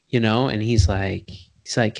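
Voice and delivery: normal talking voice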